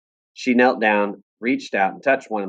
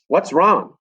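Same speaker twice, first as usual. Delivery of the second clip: high, louder demand; loud question; 8 semitones higher, 6 dB louder than usual. Acted. Papa asking loudly what is wrong, higher and louder. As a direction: call it out sharply. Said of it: "in a loud voice".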